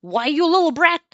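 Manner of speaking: loud, high laughing granny; grandma voice. Acted. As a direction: tease her like an old granny. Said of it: "laughed the old woman".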